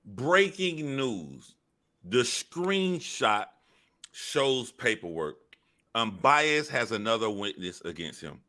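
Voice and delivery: slow, hammed-up breaking news read; mock news anchor. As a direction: read it like a cheesy newsflash. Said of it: "Remember all this breaking news".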